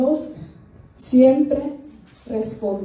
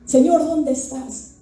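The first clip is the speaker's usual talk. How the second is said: prophet's lament; 5 semitones higher than usual. Retold or imitated. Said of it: "y le decía".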